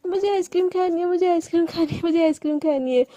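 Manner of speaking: lightly acted childish whine; hint of a child's chanted demand; childish tantrum. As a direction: insist like a stubborn kid. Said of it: "जैसे बच्चे नहीं करते".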